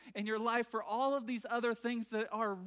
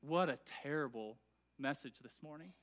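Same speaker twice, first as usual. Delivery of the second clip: mock complaint; 6 semitones lower, 5 dB quieter than usual. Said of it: "people would be like".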